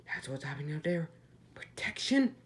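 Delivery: whisper. Retold or imitated. Batman in shock, whispered line.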